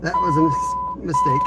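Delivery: breaking up with laughter mid-word; laughing. Real, not acted. Admitting his mistake to viewers, laughing through the words. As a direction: try to say it while laughing.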